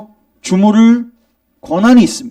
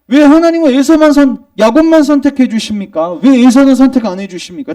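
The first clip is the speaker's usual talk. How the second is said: indignant protest; 5 semitones higher than usual. Retold or imitated. Preacher voicing people who accuse God of injustice, indignant. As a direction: argue back like an offended objector. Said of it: "따지는 거예요, 하나님께".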